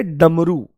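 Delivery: डमरू opening on a firm retroflex stop; hard ड in डमरू. Shown as a demonstration. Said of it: "इसमें ड का यूज़". (डमरू में कड़क ड, धीरे)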